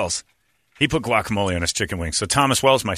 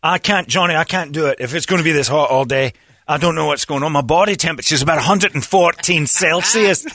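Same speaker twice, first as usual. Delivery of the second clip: mock pleading friend; 6 semitones higher, 3 dB louder than usual. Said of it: "the speaker pleading in hot car".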